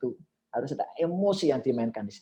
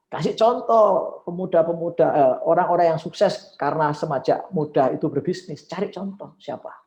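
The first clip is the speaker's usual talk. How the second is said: louder, higher rally call to students; rousing speech; 6 semitones higher, 5 dB louder than usual. Shown as a demonstration. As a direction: lift the room with examples. Demo speech, rising energy.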